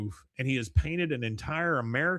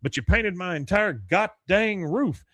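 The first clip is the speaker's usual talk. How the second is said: higher, louder protest; exasperated yell; 7 semitones higher, 5 dB louder than usual. Retold or imitated. Hank protests to Dale about his roof, higher and louder. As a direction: sputter in outrage. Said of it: "He goes".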